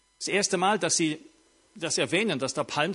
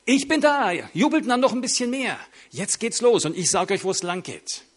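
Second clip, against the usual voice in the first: boastful king; 4 semitones higher, 3 dB louder than usual. Retold or imitated. Imagined boastful king speaking.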